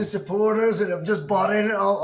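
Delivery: a hint of an American accent, mostly his own voice; lightly imitating the player's American twang; half-hearted American accent; bad American accent. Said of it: "that's the worst accent ever".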